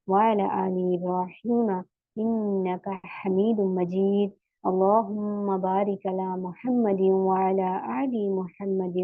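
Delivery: slow, measured opening du'a before class; slow prayer recitation. Acted. Teacher opens the online class with a slow recited prayer. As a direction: recite each phrase slowly and devoutly.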